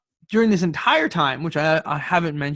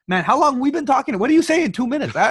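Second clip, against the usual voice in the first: much higher, louder disbelief; incredulous; 10 semitones higher, 6 dB louder than usual. Retold or imitated. Asking how anyone fills two minutes, higher and louder in disbelief. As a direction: squawk it in mock disbelief.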